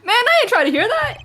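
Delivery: slang-heavy street voice. Acted. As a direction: play it cool with heavy slang. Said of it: "he's got the slang".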